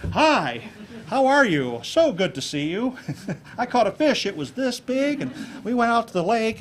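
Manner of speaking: high, loud, over-animated chatter; overdone gestures. Shown as a demonstration. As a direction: ham it up like a wildly gesturing talker. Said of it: "it just seems unnatural".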